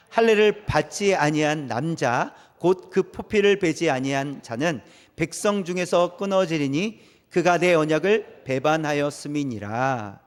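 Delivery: slow, measured Bible reading; scripture reading. Acted. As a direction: read the verse slowly and solemnly. Reads scripture aloud. (천천히 낭독하는 성경 말씀)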